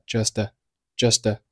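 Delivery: "just a" joined as "jus-tuh"; linked sounds. Shown as a demonstration. Teacher demonstrating linking, "just a" as one word. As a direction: run the t of "just" into a light "a". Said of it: "just和a连读成了".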